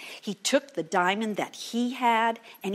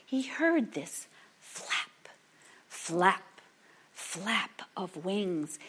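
slow breathy hush building dread; hushed suspense; 2 semitones lower, 6 dB quieter, much slower than usual. A narrator's reading. Storyteller hushing children at the midnight moment, slow and whispery. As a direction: draw the listener in, slow and hushed.

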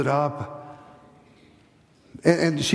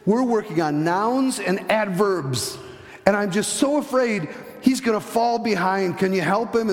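lightly voiced eager teacher, higher pitch; a hint of an earnest, higher-voiced teacher; retold schoolteacher; 5 semitones higher than usual. Classroom teacher asks hospital teacher for help, lightly voiced, higher and earnest. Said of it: "And the teacher goes".

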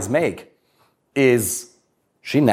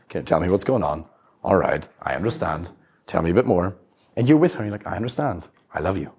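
reassuring; 6 semitones lower than usual. Pretend. Grounded man comforting upset partner, low gentle reassuring voice.

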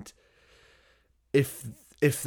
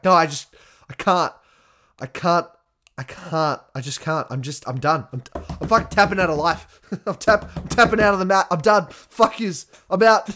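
raised, loud mock-despairing rant; exasperated giving up; 5 semitones higher, 5 dB louder than usual. Beaten grappler quitting the mat to his partner, melodramatic. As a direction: throw in the towel dramatically. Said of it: "And I'm like".

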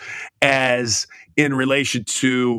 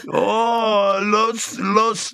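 higher, hammed-up Mexican accent; pitched-up mock Mexican accent, groping for words; 8 semitones higher, much slower than usual. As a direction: fumble it in a joking Mexican accent. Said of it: "talk in a Mexican accent".

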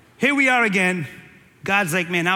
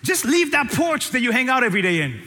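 preaching shout; 2 semitones higher than usual. Real, not acted. Preacher calling people off porch.

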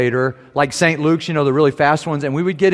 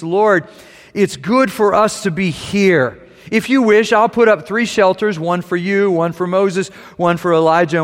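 higher and louder, eager Peter; 6 semitones higher, 4 dB louder than usual. A narrator's reading. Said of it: "And Peter said to Jesus".

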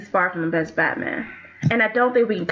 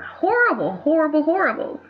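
mock despair; 6 semitones higher than usual. Real, not acted. Agreeing emphatically, mock despair.

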